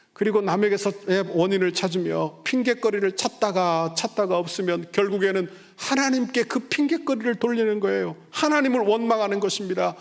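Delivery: fervent sermon delivery; impassioned preaching. Acted. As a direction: drive the point home from the pulpit. Preaching rises.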